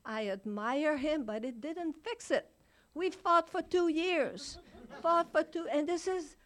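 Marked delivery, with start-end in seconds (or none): 2.9-6.4 laughing. Real, not acted. Laughing about fighting with husband.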